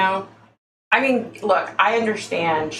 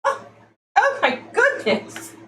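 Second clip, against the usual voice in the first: mock psychic prediction; 5 semitones higher than usual. Vlogger parodying psychic predictions, high swooning mock-psychic voice. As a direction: moan it out like a dramatic phony seer. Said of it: "So if I said to you".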